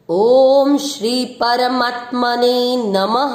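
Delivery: slow, full-voiced Sanskrit chanting; full shloka recitation. Shown as a demonstration. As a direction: intone the whole verse reverently. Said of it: "पूरे श्लोक का उच्चारण एक साथ".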